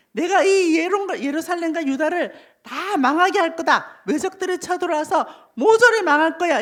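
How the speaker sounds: mildly angry, emphatic pronouncement; angry God. Acted. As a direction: declare doom as an angered God. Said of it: "하나님이 화가 나셨어". (화가 난 하나님처럼 힘주어 선포하듯)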